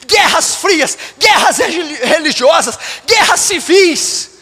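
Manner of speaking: emphatic, punched list of evils; forceful preaching. Real, not acted. Pastor denouncing the world's ills to church, forceful preaching. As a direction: hammer out each item from the pulpit.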